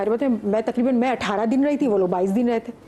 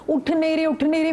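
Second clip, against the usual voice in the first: raised, urgent calls to wake friends; higher and urgent, trying to wake them; frightened calling out; 5 semitones higher than usual. Retold or imitated. Calling frightened roommates awake. (डरी हुई, ऊँची आवाज़ में पुकारना)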